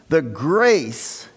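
"grace" leaned on and drawn out; stress on grace. Shown as a demonstration. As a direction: hit the word "grace" firmly. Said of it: "I emphasize the word grace".

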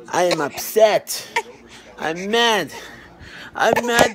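loud, playful whine of outrage; put-on angry baby protest; mock tantrum for baby. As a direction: complain on the baby's behalf, hammed up. Voices the baby's tantrum.

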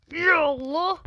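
breathy whispered prayer; whispered plea. Real, not acted. Gamer praying before a tough jump, whispered.

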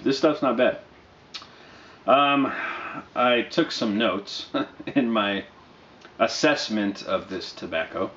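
talking around a pipe stem; pipe in mouth. Real, not acted. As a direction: speak with the pipe between your teeth. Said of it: "I'm actually gonna smoke some right now".

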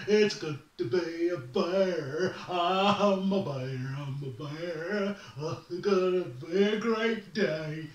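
bubbly, laughing sunny-morning bear; cheery bear voice. Acted. Bear greeting the morning, giddy and laughing. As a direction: chirp it like nothing could go wrong. Bear singing his joy.

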